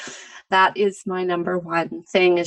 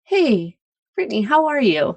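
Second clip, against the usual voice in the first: caring greeting; 2 semitones higher than usual. Shown as a demonstration. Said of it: "There's a difference between".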